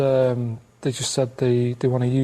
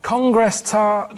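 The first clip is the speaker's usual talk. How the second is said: slow code word; 5 semitones higher, much slower than usual. Pretend. Playing the kidnapped caller.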